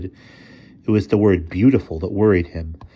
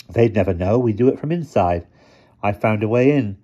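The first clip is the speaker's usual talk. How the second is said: quiet intensity; 3 semitones higher, 4 dB louder than usual. Acted. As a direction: lean in and mean every word. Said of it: "with a sort of intensity".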